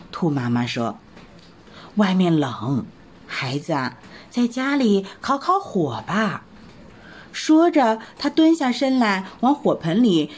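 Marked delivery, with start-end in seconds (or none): 2.0-6.4 lightly voiced mother soothing her child; mother rabbit coaxing. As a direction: talk the child into staying home.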